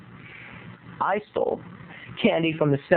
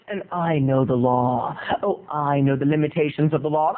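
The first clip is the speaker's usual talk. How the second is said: mock legal bluster; 3 semitones lower than usual. Kid boasts legal knowledge.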